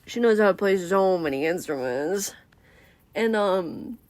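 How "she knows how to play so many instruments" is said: jaw-dropped awe. Acted. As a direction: swoon in mild mock awe. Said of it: "like, jaw dropped".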